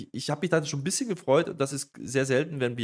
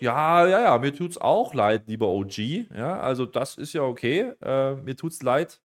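slow, louder acted answer; mock Jey Uso reply; 3 semitones higher, 5 dB louder, slower than usual. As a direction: draw the words out, leaning on each one. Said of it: "der antwortet hier auch und sagt".

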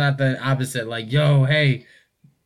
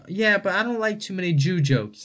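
lightly voiced mom, higher pitch; a higher-pitched mock-mom protest; mom objecting; 6 semitones higher than usual. Retelling mom's objection to her child, lightly imitated mom. Voicing mom in retold argument.

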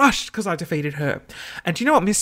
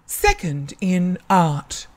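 slow, measured award announcement; lightly voiced ceremony announcer, words spaced out; announcer reading results; much slower than usual. School announcer reading out an award, slow and measured.

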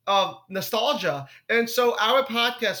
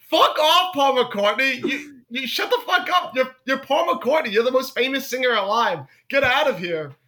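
raised, exasperated mock telling-off; mock outrage; 4 semitones higher than usual. Comedian scolding a falsely modest star, mock-angry.

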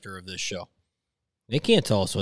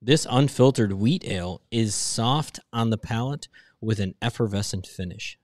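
label reading. Shown as a demonstration. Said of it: "reads the beer label".

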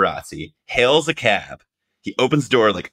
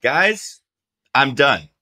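weary star; 6 semitones higher, 3 dB louder, much slower than usual. Retold or imitated. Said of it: "Harrison was like".

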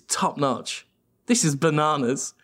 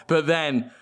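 usual speaking voice

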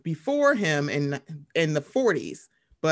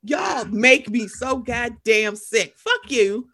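slow, louder mock yell; slow mock shout; 3 semitones higher, 5 dB louder, much slower than usual. Telling off a hated movie, slow mock yell. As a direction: drag it out like a furious rant.

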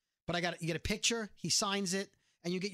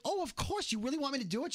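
all excited; 6 semitones higher than usual. Retold or imitated. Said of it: "She was all excited".

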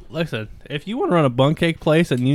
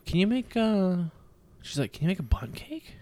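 hushed, whispered ask, imitating the wife; imitated whispered request; 6 semitones higher, 4 dB quieter than usual. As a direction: whisper it like a sheepish favor. Wife's request quoted.

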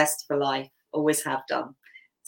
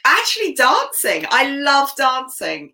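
much higher and louder, slow on I love dancing; enthusiastic; 9 semitones higher, 5 dB louder than usual. Real, not acted. Guest telling the host her favourite hobby, enthusiastic. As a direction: gush about your passion.

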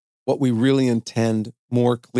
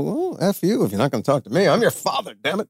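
mock-indignant, pitched up; indignant father; 5 semitones higher than usual. Dad snubbed by his kid who won't talk, mock indignant. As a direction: act out a miffed dad's retort.

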